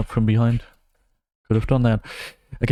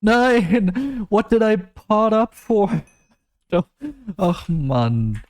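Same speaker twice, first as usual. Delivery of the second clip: shocked outburst; 11 semitones higher, slower than usual. Real, not acted. Gamer cries out at a surprise result. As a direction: yelp in disbelief at the result.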